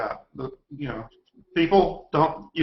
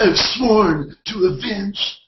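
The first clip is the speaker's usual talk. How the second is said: Keanu Reeves impression; 6 semitones higher, 5 dB louder, slower than usual. Quoting Keanu's movie line.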